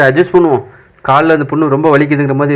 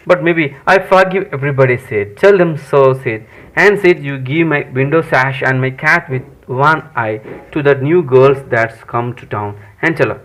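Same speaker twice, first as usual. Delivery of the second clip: slow, deliberate English reading; story dialogue read-aloud; much slower than usual. Acted. Tom hands out his last wishes, slow read-aloud.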